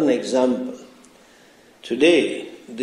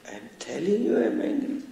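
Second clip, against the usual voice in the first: fast, higher but held-down protest; dramatized mild anger; 6 semitones higher, 9 dB quieter, much faster than usual. Retold or imitated. Disciple first insisting to Swami that he is angry, mock annoyance. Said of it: "The voice goes up slowly".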